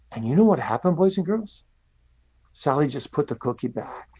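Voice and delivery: put-on gentle storyteller voice for little kids; telling a story to children. Shown as a demonstration. Pastor telling children a cookie story, gentle and lively. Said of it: "I'll say it like I'm saying it to children".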